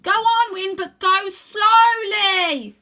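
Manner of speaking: very slow, high careful warning; slow loud cautious plea; slow urging. A narrator's reading. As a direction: draw it out, go slowly. Rose urges caution.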